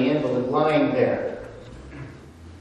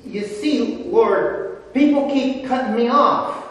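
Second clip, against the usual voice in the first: higher, fast, pleading whine; mock self-pitying whine, a hint of comedy; whining invalid; 6 semitones higher than usual. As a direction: play the invalid complaining to the Lord. Preacher voices the invalid's whining.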